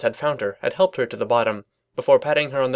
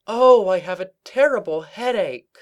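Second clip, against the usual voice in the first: hammed-up higher moan; fake sick; 8 semitones higher, 3 dB louder than usual. A narrator's reading. Twilight faking illness to her colleagues, hammed-up. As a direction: overplay the headache. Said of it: "faux faint".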